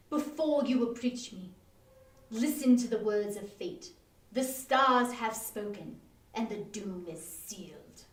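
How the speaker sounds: hammed-up, slow doom-laden prophet; a husband playing the grim fortune teller; deep voice. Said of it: "in a deep voice".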